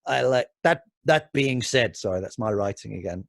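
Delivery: lightly put-on Russian accent. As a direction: read it in a mild Russian accent. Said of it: "Why, why the Russian accent?".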